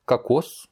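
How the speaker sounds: "Какос" said ka-KOS; unstressed O as A. Shown as a demonstration. Teacher reads the next example, reduced first vowel. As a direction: say "Какос" with A, then stressed O. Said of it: "le premier O n'est pas accentué".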